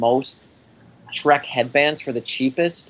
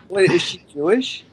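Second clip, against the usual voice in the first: whispering; 4 semitones higher than usual. Real, not acted. Quick whispered aside.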